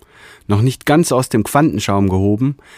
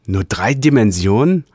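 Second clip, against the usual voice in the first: higher, rising, thrilled; delighted question; 4 semitones higher than usual. Acted. Realigator hearing the report, eager rising question. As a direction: lift nur drei Dimensionen in eager wonder. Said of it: "rief der Realigator erfreut".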